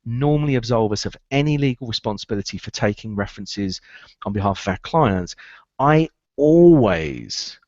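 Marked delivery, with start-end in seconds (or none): 5.8-7.6 always drawn out slow and louder; stress on always. Shown as a demonstration. Coach hammering home to recruiters that he always checks. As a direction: lean hard on always, stretching it. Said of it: "what's the word?".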